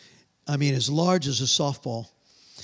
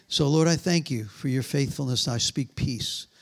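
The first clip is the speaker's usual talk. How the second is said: lower, measured praying voice; solemn, low-pitched blessing; closing prayer; 4 semitones lower than usual. Real, not acted. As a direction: pray peace over the congregation. Closes by praying over congregation.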